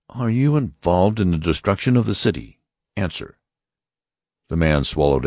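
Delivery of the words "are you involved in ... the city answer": high, stern voice of an alien officer; Martian officer. Acted. Martian officer warning the passengers, stern and high. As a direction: announce it like a cold interrogator. Lighter interrogates businessman.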